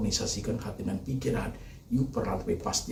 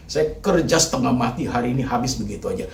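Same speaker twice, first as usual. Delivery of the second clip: raised, pleading protest; anguished complaint; 3 semitones higher, 4 dB louder than usual. Acted. Preacher voicing a ruined man, raised pleading protest. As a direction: push it out like someone robbed. Grieving parent voiced complaint.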